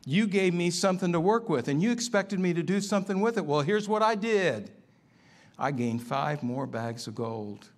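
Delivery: a hint of a proud servant presenting his gains; eager servant. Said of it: "and he said".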